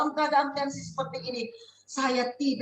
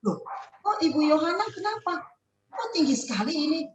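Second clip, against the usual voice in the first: higher-pitched, surprised questioning; surprised and concerned, pitched up; startled nurse; 5 semitones higher than usual. Retold or imitated. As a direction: voice a nurse taken aback. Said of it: "Suster kaget".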